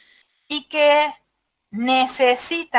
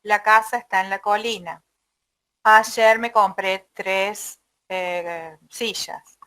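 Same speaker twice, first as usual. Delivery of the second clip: test sentences read out; 3 semitones lower than usual. Shown as a demonstration. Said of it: "puede ser una frase".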